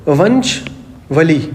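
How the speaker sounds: वंशवली drawn out syllable by syllable, very slow; slow teaching demo of वंशवली; spelled out slowly. Shown as a demonstration. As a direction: stretch वंशवली out so students catch each part. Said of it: "आप इसको ऐसे जान सकते हो".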